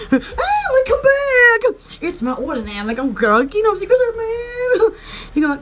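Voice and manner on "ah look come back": loud, slow call with a high lift; calling back. Retold or imitated. Imitating a flustered man calling her back, louder. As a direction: call them back, a touch louder and higher. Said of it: "You'll be like".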